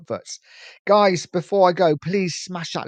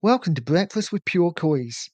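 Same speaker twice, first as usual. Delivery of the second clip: phone voice; 3 semitones higher than usual. Shown as a demonstration. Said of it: "I'm gonna have to get my phone voice".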